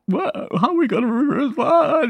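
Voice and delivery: high, cracking panic, nearly crying; panicked disbelief. Retold or imitated. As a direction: blurt it out in a nervous panic. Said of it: "nervous about all of this".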